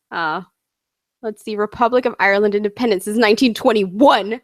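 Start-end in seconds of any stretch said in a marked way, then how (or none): 3.2-4.4 "twenty-one" hit with heavy emphasis; emphatic date. Real, not acted. Reading out the Republic's independence date, emphasis on "twenty-one". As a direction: punch the end of "twenty-one". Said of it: "that should have that emphasis".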